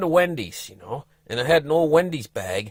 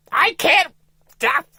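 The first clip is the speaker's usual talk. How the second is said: high strained wife voice; wife begging, pitched high; desperate wife; 4 dB louder, slower than usual. Retold or imitated. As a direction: plead that you can't hold it.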